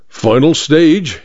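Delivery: slow, deliberate reading aloud. Acted. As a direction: read it out slowly, weighing each word. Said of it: "he read aloud".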